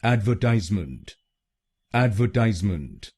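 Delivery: एडवर्टाइजमेंट with TIZE stressed. Shown as a demonstration. Teacher showing learners where the American stress falls. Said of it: "तीसरे शब्दांश पर यानी टीआईएसई पर जोर".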